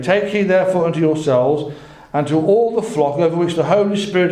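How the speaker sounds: measured, emphatic Bible reading; scripture reading. A narrator's reading. Preacher reads Paul's warning to the overseers, emphatic scripture reading. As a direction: read the charge out with weight.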